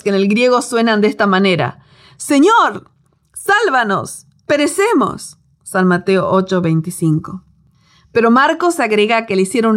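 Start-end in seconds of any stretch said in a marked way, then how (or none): 2.2-5.4 desperate cry. Acted. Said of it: "con tres gritos desesperados".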